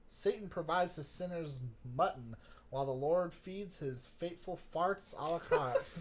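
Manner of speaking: put-on too-southern accent. William sparring with his cousin over the Lord, in a Southern accent. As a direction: read it with an overdone Southern accent. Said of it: "too southern now for William".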